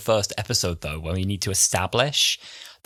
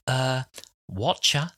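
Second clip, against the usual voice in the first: Cockney; 3 semitones higher, slower than usual. Retold or imitated. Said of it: "Old Earth Cockney".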